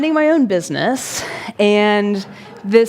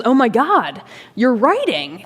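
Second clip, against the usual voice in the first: raised pitch, mildly awed quote; impressed exclamation; 3 semitones higher than usual. Retold or imitated. Older gentleman notices the storyteller writing, impressed. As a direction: imitate an amazed onlooker.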